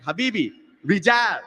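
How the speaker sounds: mildly exasperated mock insistence; a little frustrated. Security guard refuses the customer again, mildly frustrated. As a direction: imitate a guard getting a little mad. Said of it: "getting a little mad, a little frustrated".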